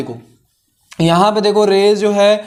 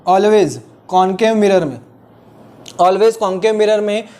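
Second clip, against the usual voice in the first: slow dictation; much slower than usual. Shown as a demonstration. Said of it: "dictating to students".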